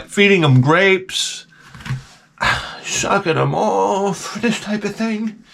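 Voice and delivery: drawn-out breathy slow words; slow and suggestive. Pretend. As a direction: savor each word slowly. Lurid sheik fantasy, slowed.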